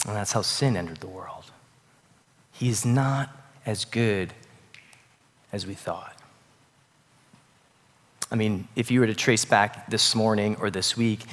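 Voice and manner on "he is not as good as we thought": fading hushed doubt. Shown as a demonstration. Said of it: "repeating the doubt, fading".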